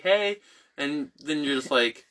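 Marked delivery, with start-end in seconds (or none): 0.0-0.4 pitched-up answer, more contained; retold reply. Sister answers her loopy brother's greeting, contained. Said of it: "And I was like".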